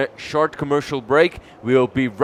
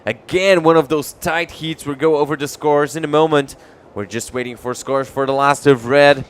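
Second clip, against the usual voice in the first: excited commentary; 2 semitones higher, 6 dB louder than usual. Real, not acted. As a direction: keep the energy up as the horn sounds. Excited end of heat.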